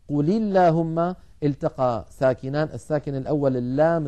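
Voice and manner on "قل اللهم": slow "قل اللهم" linked as "quli-llahumma"; kasra on lam. Shown as a demonstration. Teacher reciting an example, "قل اللهم" joined with kasra. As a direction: give the lam of قل an i-vowel into اللهم. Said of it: "فحرك الأول بالكسر".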